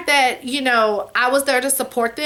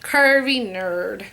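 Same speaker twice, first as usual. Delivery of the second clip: lower, slow relish; 4 semitones lower, much slower than usual. Shown as a demonstration. Vlogger repeating subscriber's name, lower and drawn out. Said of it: "I just wanna say it one more time".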